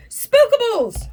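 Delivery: high, loud, drawn-out cry of alarm; high-pitched storybook yell; startled holler. A narrator's reading. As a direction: holler it out, stretching the word. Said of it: "hollered Tigger".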